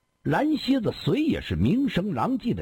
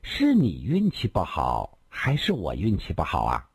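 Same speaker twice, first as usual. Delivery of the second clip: 抿嘴笑着问; 7 semitones lower than usual. A narrator's reading. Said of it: "林仙儿抿了嘴笑道".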